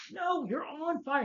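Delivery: drawn-out falsetto quip; mock high voice, slow and teasing; high slow mock quote. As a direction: stretch it out in a high silly voice. Quoting reply, high slow.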